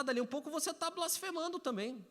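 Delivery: normal talking voice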